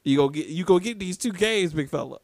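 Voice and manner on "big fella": ordinary talk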